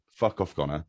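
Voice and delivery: a mock brush-off through a laugh; imitating a friend, laughing as he brushes off the request; laughing dismissal. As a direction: laugh while telling your friend off. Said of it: "And then you would go".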